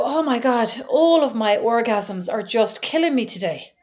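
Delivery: mock American complaint; slow, hammed-up American whine; American accent. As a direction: put on an exaggerated American accent. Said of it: "That's very American".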